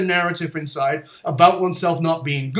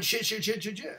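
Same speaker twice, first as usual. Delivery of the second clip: softly imitated string of swearing; subdued recap; 4 semitones higher, 11 dB quieter than usual. Student reminding his teacher of the outburst, subdued recap. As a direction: repeat the outburst quietly, toned right down.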